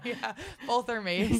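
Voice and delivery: slow, laughing reply. Real, not acted. Podcast guest answering host's joke, laughing slowly. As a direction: chuckle it out slowly. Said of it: "who's the real star".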